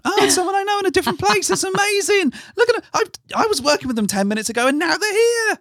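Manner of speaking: very high, fast, squealing mock excitement; a dog thrilled to spot someone it knows; excited dog voice. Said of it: "like seeing a dog in the playground".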